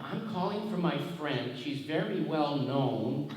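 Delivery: imitated Chicago caller, drawing out the key words; Chicago accent. Woman phoning about her famous friend, in a Chicago accent. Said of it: "lady with this Chicago accent".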